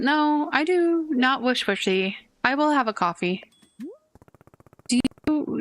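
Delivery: lightly voiced formal businessman, slightly measured; a stiff, polite office man in a hurry; a hint of a rigid businessman insisting on coffee. Businessman Jerry wants coffee.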